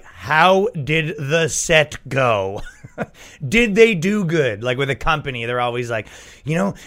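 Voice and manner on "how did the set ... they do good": very slow, pointed question; mock deadpan question. To the festival crowd, asking very slowly and unimpressed. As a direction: drag it out, unimpressed. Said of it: "And you're like".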